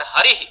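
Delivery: हरिः ending in an echoed "hi"; visarga after i. Shown as a demonstration. Teacher showing visarga after ikar, हरिः said with final "hi". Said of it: "इकार के बाद में विसर्ग सुनाई दे रहा है".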